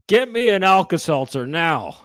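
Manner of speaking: Santa demand. Acted.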